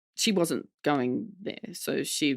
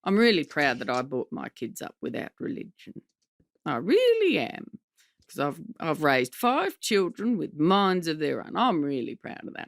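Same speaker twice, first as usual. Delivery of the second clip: lightly voiced proud mother; impersonating Mum. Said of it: "I like impersonating my mom".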